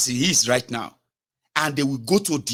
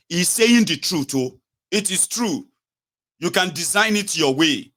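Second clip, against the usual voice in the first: mock supporters; 4 semitones higher than usual. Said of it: "they too will now go and say".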